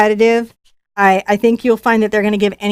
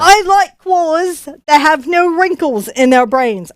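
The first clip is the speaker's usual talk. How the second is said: put-on accent slipping British; 5 semitones higher, slower than usual. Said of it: "I keep going British".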